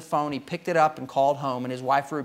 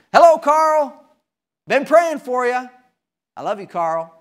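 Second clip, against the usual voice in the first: cheery preacher greeting; 8 semitones higher, 7 dB louder than usual. Retold or imitated. Preacher greeting Carl again in the driveway, cheerful. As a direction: call out a warm hello, then ease down.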